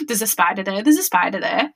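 gasping, hushed spider alarm; mock fright kept under the breath; imitated inner panic. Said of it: "inside I was still like".

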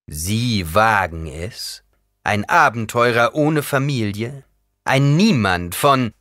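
building from slow disbelief to loud outrage; indignant. A narrator's reading. Emperor answering the adventurer's proposal, indignant. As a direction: sputter with rising indignation.

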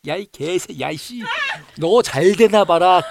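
put-on slurred drunken swearing tirade; drunk cursing. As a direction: rant it out like a drunk. Retold drunk cursing voicemail.

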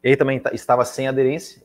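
fighting off a sneeze mid-sentence; holding back a sneeze. Real, not acted. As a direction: sneeze building, pushing words out. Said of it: "eu vou espirrar".

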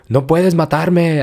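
mock yell, drawn out; slow mock shout of defiance; retold yell. Woman yells at the intruder, mild mock yell. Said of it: "pero le grita".

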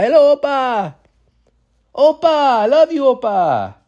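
high, exaggerated cry of love; gushing mock adoration. Kid calls to the grandpa he adopted, high mock gushing. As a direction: call out to grandpa in a hammed-up high voice.

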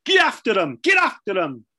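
loud barked touchline shout; committee man shouting. Retold or imitated. Committee man shouting at the team from the sidelines. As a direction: yell it from the stands at the players. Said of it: "all he used to shout was".

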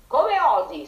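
high, loud outraged squawk; furious shriek. A narrator's reading. Rooster furious at the echo, shrieking high and loud. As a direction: shriek it in fury. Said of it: "strillò infuriato Checco".

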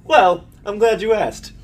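hammed-up presenter; pitchman's answer. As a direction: launch a mock infomercial with relish. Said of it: "I was waiting for someone to ask".

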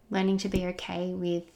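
tapping the mic. Real, not acted. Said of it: "sorry, I'm tapping the microphone".

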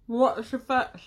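talking with sweets in mouth; mouth full. Real, not acted. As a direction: speak around a mouthful. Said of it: "I just put a Mawam in my mouth".

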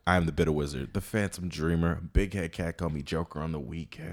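low, soft menacing villain; deep villain voice. Acted. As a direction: announce yourself like a dark overlord. Grand villain self-introduction.

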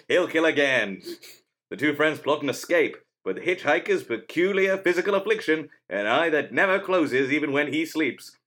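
vintage radio announcer read; old-timey radio voice. Shown as a demonstration. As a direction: narrate like a fifties radio promo. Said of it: "an old-timey radio voice".

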